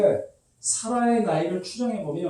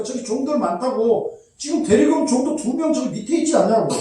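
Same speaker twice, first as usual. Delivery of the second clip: mild pleading son; 3 semitones higher, 4 dB louder than usual. Pretend. Voices Isaac pleading with father.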